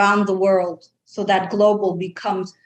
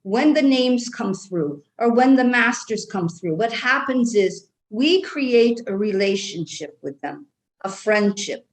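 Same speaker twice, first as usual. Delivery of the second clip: light Irish brogue held throughout; Irish accent. Acted. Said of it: "I love your accent".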